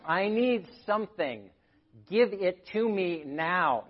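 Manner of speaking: mock desperate need; demanding. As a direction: give it to me now, pleading and pushy. Voicing anxious demanding self.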